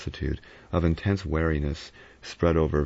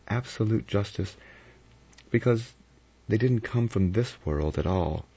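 higher-pitched woman telling an eerie tale; Vera, musing uneasily; 5 semitones higher than usual. Acted. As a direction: recount it with hushed wonder, pitched up.

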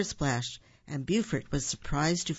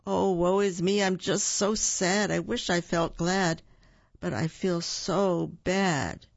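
moaning woe; 3 semitones higher than usual. Acted. Buford moans to his friends about feeling sad. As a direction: wail the woe like a moping bear. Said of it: "Buford moaned".

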